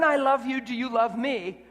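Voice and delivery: mock needy "I love you, do you love me?" with a hint of a plea; needy conditional love. Preacher mocking love that wants something back, mild needy voice. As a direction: play the clingy lover bargaining for love, lightly. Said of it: "Not an".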